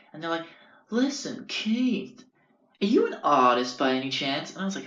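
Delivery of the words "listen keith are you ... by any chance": put-on pitched-up Long Island boyo starting high; Long Island accent. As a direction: imitate a Long Islander buttonholing Keith. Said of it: "real Long Island boyos".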